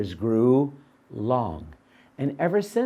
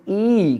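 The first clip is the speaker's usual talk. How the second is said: put-on a loud, higher e for kids to copy; modelled e sound; 6 semitones higher, 5 dB louder than usual. Shown as a demonstration. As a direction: call out a clear e. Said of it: "Can you say e?".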